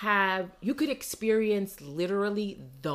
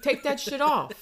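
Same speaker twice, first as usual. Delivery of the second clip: exasperated scolding; 4 semitones higher than usual. Acted. Scolding imagined tourists on train.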